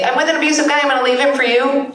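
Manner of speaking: quoted women. Acted. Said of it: "when women say".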